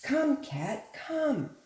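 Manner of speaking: high coaxing call; calling the cat. Acted. Dog calling the cat over, high coaxing call. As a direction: coax the cat to come. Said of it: "the dog called the cat".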